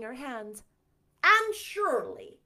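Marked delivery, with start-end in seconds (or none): 1.2-2.4 louder, slow, higher call; sharp call. Acted. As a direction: call her name in alarm. Marilla calls.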